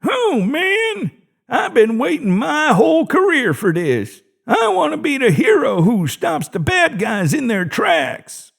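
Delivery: disappointed tone; disappointed old guard. A narrator's reading. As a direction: whine like a kid denied his fun. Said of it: "in a disappointed tone".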